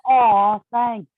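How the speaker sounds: drawn-out, bashful "aw, thanks"; deflecting thanks. Shown as a demonstration. Tattooer receiving a compliment awkwardly, deflecting thanks. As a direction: brush off the compliment lightly. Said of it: "Did you feel the difference in aw, thanks".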